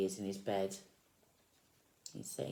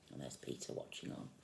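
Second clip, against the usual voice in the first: whispering; 9 semitones lower, 10 dB quieter than usual. Real, not acted. Pointing at picture to child.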